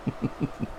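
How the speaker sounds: soft laugh. Real, not acted. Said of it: "Can't say it".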